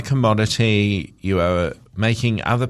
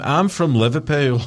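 raised-pitch mock Scouse call-back; Liverpool accent; 4 semitones higher than usual. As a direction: put on a jokey Liverpool accent, higher pitched. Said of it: "is what I heard in my head".

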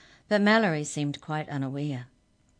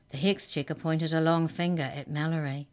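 ordinary delivery, nothing marked

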